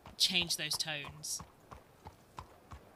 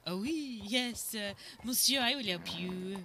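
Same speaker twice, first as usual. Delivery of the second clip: put-on French accent; 2 semitones higher than usual. Pretending to Bud she is just a helpful French lady. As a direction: play coy French innocence. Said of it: "I was like".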